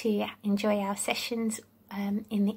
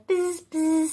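bee buzz; 4 semitones higher than usual. Shown as a demonstration. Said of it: "sounds of the animals".

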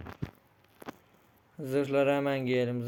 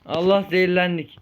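dismayed cry; 4 semitones higher, 7 dB louder than usual. Real, not acted. Ate raw chicken, poisoned.

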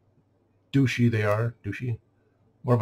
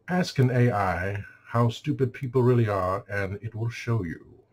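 lightly imitated AI voice pattern; measured delivery, slowing and dropping at the end. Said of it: "speaking like the A I".

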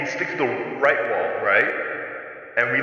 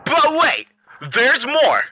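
higher, ad pitch with echo; echo microphone; 9 semitones higher, much slower than usual. Real, not acted. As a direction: pitch it like an infomercial. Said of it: "he just has an echo mic".

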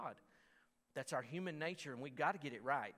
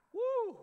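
loud whoop; 9 dB louder than usual. Real, not acted. Reaction after harsh passage.

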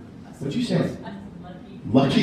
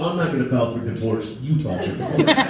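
spouse quarrel; 7 semitones lower than usual. Retold or imitated. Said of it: "and you go".

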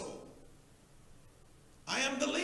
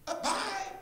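laughing bye; 10 semitones higher than usual. Retold or imitated. Mocking members rushing out.

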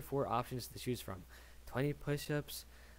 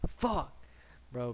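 retold loud curse. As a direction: blurt it out as if from sudden pain. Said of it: "I said that shit so loud".

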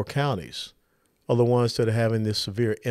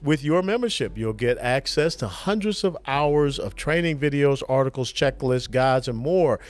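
polished, upbeat host-read advertisement; sponsor ad read. Acted. Host pitching concealed carry membership to listeners, ad read. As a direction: read it like a podcast sponsor spot.

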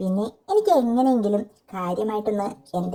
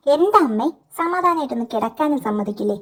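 annoyed shout back; 3 semitones higher than usual. Retold or imitated. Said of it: "ഞാൻ ദേഷ്യത്തോടെ വിളിച്ചു പറഞ്ഞു".

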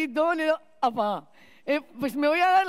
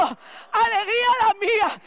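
sarcastic retort; 7 semitones higher, 3 dB louder, slower than usual. Retold or imitated.

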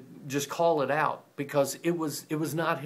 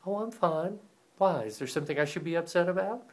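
higher, quicker mock-innocent denial; fake-cheery passive-aggressive; 4 semitones higher than usual. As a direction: brush it off sweetly while clearly upset. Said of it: "passive-aggressive".

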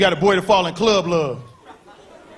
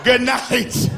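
put-on higher, dismissive girl voice; mock girl brushoff; 4 semitones higher, slower than usual. Women shooing a guy at the club, mock dismissive. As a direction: shoo him away with fake politeness.

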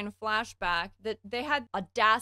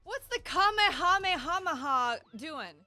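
startled high disbelief; 10 semitones higher, 4 dB louder than usual. Real, not acted. Reacting to yelling in song.

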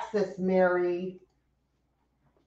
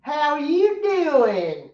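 Texas accent; 4 semitones higher, slower than usual. Shown as a demonstration. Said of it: "Angela said to say it with a Texas accent".

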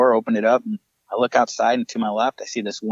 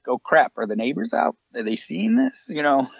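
suddenly much higher, anxious whisper-quick questions; half-laughing panic about being seen; embarrassed alarm, pitched way up; panicked worry; 6 semitones higher than usual. Retold or imitated. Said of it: "I'm looking around like".

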